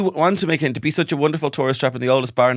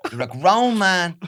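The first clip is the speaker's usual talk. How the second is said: mock furious wife; 4 semitones higher, slower than usual. Playing a wife scolding her husband over spaghetti. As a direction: rant like a fed-up Irish mammy. Pretend marital row.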